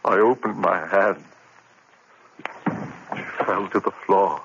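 stunned, empty remorse; a touch of numb grief; numb confession. Acted. Narrator numb after killing.

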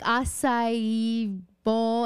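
"Acai bowl" very slow and tentative, like a question; unsure. Retold or imitated. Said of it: "say it like I'm not sure".

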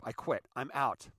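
a lightly hammed-up quitter shouting I want a divorce; mock outburst. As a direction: storm out of a marriage, hammed-up. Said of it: "Some people".

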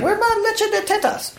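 high squeaky imitation of his wife; high put-on whiny wife voice; mock wife voice. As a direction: pitch way up, mimic a pleading wife. Imitating wife's craving, mock voice.

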